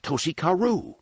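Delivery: high shout of the name; a local cries the name before fleeing; yelled name. A narrator's reading. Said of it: "one of them yelled".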